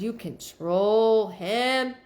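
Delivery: very slow, stretched-out words; drawn-out relayed quote. Retold or imitated. Medium relays a spirit's words to a sitter, slow and drawn out. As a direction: draw out each word, imitating the speaker you quote.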